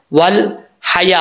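वल हया slowly, with a clear light haa; clear thin haa. Shown as a demonstration. Teacher showing students the thin haa, slow clear articulation. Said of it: "clear sound करके पढ़ना है".

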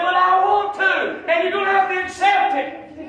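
slow high shout, then firm; preacher shouts back, insisting he accept; shouted insistence. Retold or imitated. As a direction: insist at full voice.

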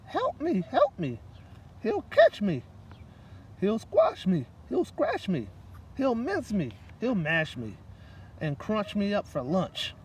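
high, panicky mouse pleading; frightened squeak. Acted. Mouse begging for help from the gorilla, high and scared. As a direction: squeak it out in terror. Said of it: "she squeaked".

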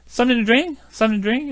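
"Something to drink" rushed into "somin-u-dink"; said quickly. Shown as a demonstration. Teacher showing how Americans say it fast. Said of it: "이렇게 빨리 하지요".

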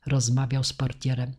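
usual speaking voice

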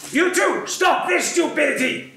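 high, loud stern teacher scolding; teacher scolding two arguing kids; imitating scolding teacher. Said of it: "the preschool teacher comes up to us and she says".

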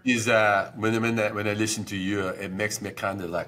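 put-on comic French accent, disgusted tone. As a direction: sneer at Americans in a French accent. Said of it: "let's hear your".

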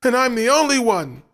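high, loud scream. A narrator's reading. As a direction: scream it in a jealous rage. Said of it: "he screamed".

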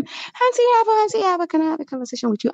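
high, hurried mock request; squeaky quick impression of a supplicant; mimicked pleading. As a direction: imitate someone rushing up to beg a chat. Mimicking the sudden sweet request.

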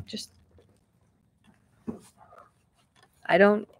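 halting, with long breaths between words; choked up with gratitude, stopping to collect yourself; fighting back real tears; almost crying. Real, not acted. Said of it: "I'm almost crying right now".

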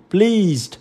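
Pleased ending in a voiced d; final d sound. Shown as a demonstration. Teacher contrasting word endings for students, final d sound. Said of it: "câu C mình đọc là the".

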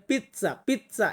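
পিৎজা said the Italian way, with a sharp ts sound: pitsa; পিৎজা with a crisp ts in the middle; পিৎজা pronounced pitsa, the way Italians say it; Italian pizza. Shown as a demonstration. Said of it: "ইতালিতে আমরা কিন্তু একটু ডিফারেন্টভাবে উচ্চারণ করে".

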